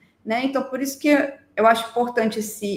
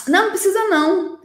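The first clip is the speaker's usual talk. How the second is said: put-on quick, higher brush-off of the child's fear; dismissive mother; 7 semitones higher, 4 dB louder, much faster than usual. Mother brushing off her scared child, quick dismissive. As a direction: wave the fear away briskly and lightly.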